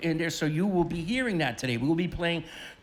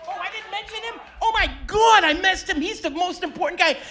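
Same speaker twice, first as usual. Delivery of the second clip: much higher, hammed-up shock; mock surprise; 14 semitones higher, 3 dB louder than usual. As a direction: play up the horror of forgetting. Forgot to introduce the pianist.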